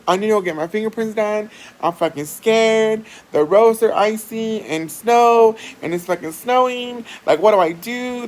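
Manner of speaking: retold freak-out. Telling a friend about icy roads, retold panic. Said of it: "I was, like, freaking the hell out".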